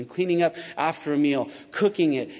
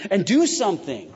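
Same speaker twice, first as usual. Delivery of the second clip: mock-exasperated demand, pitched up; mad, upset Martha; 4 semitones higher, 4 dB louder than usual. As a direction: push it out higher, acting fed up. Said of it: "And she's mad. She's upset".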